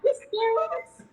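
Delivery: mock fury. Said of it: "I was like bipolar".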